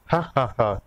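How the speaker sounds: amused "ha ha ha"; laughing. Acted. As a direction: laugh at the joke. Laughing over the vegetable joke.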